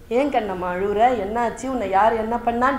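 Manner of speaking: soft, comforting question; acted soothing Krishna; tender concern. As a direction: gently ask who hurt her. Krishna comforts the weeping Draupadi.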